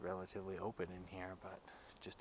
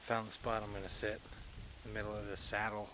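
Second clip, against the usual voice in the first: louder over the wind; wind in the face; 4 dB louder than usual. Real, not acted. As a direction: talk up over gusting wind. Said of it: "pretty windy".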